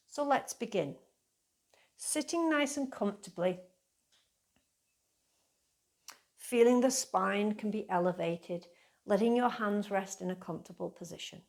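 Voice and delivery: calm, unhurried meditation guidance with long pauses; guided meditation. Real, not acted. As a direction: ease listeners gently into the practice.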